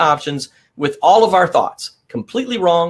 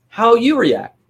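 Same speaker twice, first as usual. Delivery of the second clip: "How you react" repeated higher, "you" lifted; higher echo; 6 semitones higher, slower than usual. Shown as a demonstration. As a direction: echo the phrase up high for emphasis.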